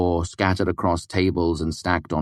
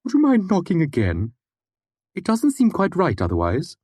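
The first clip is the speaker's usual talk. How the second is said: higher, a lightly voiced odd old scholar calling through a door; muffled voice from behind a door; 13 semitones higher than usual. Puppet asks the visitors to knock again, muffled. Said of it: "a muffled voice came from the other side".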